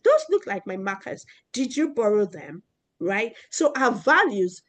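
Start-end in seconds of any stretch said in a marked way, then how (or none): 0.0-2.6 calm, gentle question. Retold or imitated. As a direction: ask kindly, no blame. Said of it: "She changed her tone and said".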